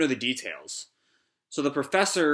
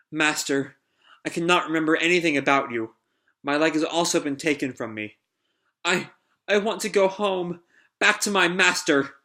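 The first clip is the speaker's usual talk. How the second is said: forlorn android; 2 semitones higher than usual. Acted. Pino's lament to master.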